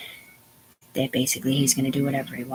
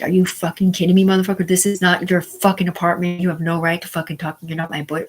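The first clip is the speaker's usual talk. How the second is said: loud, higher furious retort; angry outburst; 3 semitones higher, 7 dB louder than usual. Retold or imitated. Retelling how she yelled at the man who hit her, furious. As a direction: yell it back at him, outraged. Retelling talking back to attacker.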